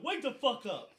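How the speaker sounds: loud, high-pitched outraged yelling; chewing-out sergeant. Retold or imitated. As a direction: bellow it like an angry sergeant, hammed up. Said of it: "And he's like".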